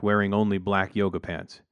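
plain reading voice

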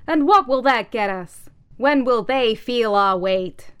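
high, very loud, slow demand; demanding hammerhead. Acted. Hammerhead demanding justice, loud and high. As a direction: press the question hard.

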